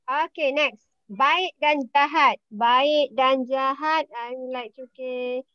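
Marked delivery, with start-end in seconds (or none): 2.5-4.1 said again slowly for the class; slow it down so students catch every word; slow, clear classroom repeat; slower repeat. Shown as a demonstration. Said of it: "teacher repeats the prompt".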